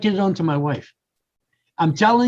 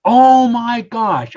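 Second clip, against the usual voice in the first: drawn-out amazed oh my gosh; slow dawning realization; 3 semitones higher, 3 dB louder, much slower than usual. Retold or imitated. Husband telling wife about his epiphany, slow amazed. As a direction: let the realization land slowly.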